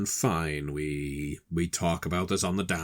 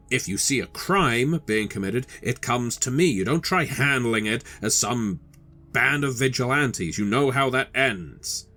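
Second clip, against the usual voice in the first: raised-pitch scolding; angry husband; 5 semitones higher than usual. Acted. Husband scolding wife about neighborhood watch, angry and raised. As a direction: lay down the law, exasperated. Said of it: "please don't yell at me".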